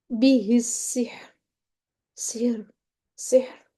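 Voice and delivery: slow demo of बिही सिहर, softening the final r of सिहर; soft ra. Shown as a demonstration. Teacher shows ra after kasra read gently, soft ra. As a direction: stretch बिही, then end सिहर on a soft, thin r. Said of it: "नरमी से अदा कर देंगे इसको".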